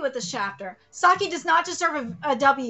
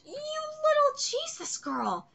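higher, slow, half-crying jeer; mock wailing insult; 12 semitones higher, slower than usual. Manga character jeering at a rival, hammed-up wail. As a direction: drag it out like a mock sob.

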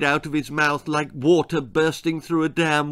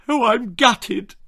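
high, slow choked-up lament; a father choking on mock grief; father moaning about the missed song, high and slow; 9 semitones higher, 5 dB louder than usual. A narrator's reading. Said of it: "choked her father".

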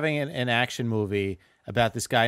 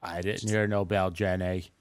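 Forrest Gump voice; 2 semitones lower, slower than usual. Retold or imitated. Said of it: "That's my one impression".

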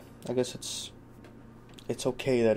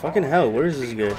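frustrated outburst; 3 semitones higher, 6 dB louder than usual. Real, not acted. Frustrated searching the boat.

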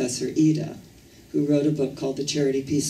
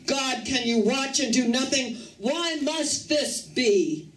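shouted plea; 7 semitones higher than usual. Acted. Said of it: "And I shouted".

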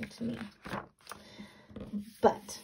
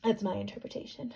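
usual speaking voice

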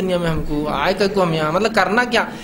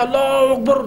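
drawn-out, slightly raised call; mildly projected chant, higher in pitch; demonstrated shout; 4 semitones higher, slower than usual. Acted. Urging a child to yell this instead, mock shout. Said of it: "जोर से चिल्लाओ".

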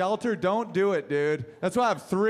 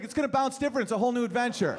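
eager dog voice; 4 semitones higher, faster than usual. Retold or imitated.

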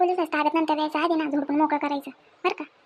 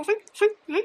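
demanding; 5 semitones higher than usual. Acted. Woman confronting old man.

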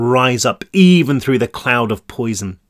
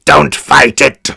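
sinister warden; 7 dB louder, slower than usual. Acted. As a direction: purr it like a cruel warden. Warden soothes victim.

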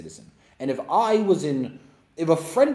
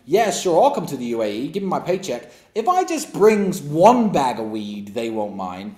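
mocking voice of a careless fool, a bit louder; mock dumb man; 6 dB louder than usual. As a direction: ham up a clueless guy saying yes. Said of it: "what a dumb man would have done".

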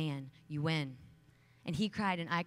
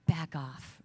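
mock bark; 6 dB louder than usual. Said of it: "I would just bark at them and growl".

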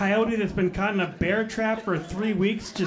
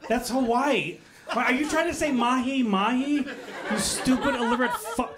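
imitated snap; 4 semitones higher than usual. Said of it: "I'm like".

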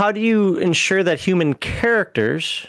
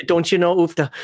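Minnesota accent. Shown as a demonstration. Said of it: "I'm from Minnesota".

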